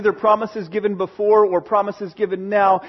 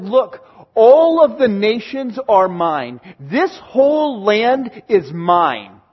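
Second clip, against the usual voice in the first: slow, weighty divine proclamation, louder; measured and commanding, slow; God's voice; 4 dB louder, slower than usual. Acted. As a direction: speak as God claiming every nation. Pastor voices God speaking.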